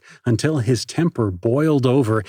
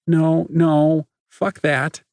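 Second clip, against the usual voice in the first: angry; 6 semitones higher, 3 dB louder, slower than usual. Acted. Nikki refuses angrily.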